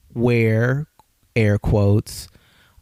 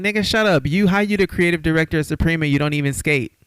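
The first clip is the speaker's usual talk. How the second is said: scornful retort; 6 semitones higher, faster than usual. Retold or imitated. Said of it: "And then Kanye was like".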